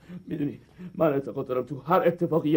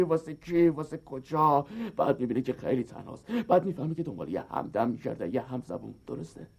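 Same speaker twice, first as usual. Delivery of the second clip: mock melancholy; 5 semitones lower, 5 dB quieter than usual. Biker pours out loneliness to the woman, mock melancholy. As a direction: lower and softer, sinking into self-pity.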